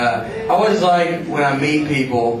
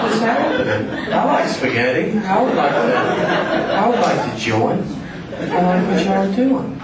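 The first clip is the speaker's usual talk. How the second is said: mock-eager, higher-pitched newcomer; hopeful outsider; 6 semitones higher than usual. Southern comic imagines asking the mafia to let him join, hopeful. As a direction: pitch it up like a naive would-be member.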